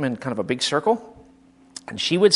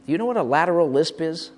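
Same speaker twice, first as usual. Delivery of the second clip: ordinary delivery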